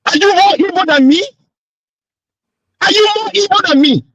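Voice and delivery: angry protest. Real, not acted. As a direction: protest hotly at being silenced. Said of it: "You're shouting on me".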